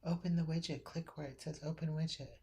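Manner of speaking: loud, called from across the room; calling out loud. Real, not acted. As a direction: call it out so it carries.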